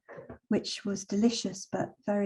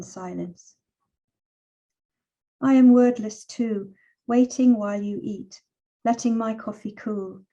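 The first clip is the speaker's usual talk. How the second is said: measured, unhurried poetry reading with long pauses; poem reading. Acted. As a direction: let each image land, read it gently. Reads her own poem aloud.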